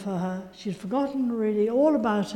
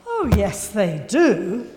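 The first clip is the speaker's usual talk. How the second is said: heated insistence; 5 dB louder, slower than usual. Retold or imitated. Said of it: "really heated argument".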